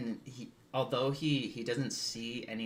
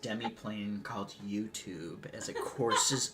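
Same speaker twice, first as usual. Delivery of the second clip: slow grand game master narration; dramatic narration; 4 dB louder than usual. Acted. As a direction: narrate it like an epic boon.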